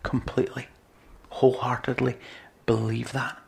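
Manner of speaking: whispered conviction. Real, not acted.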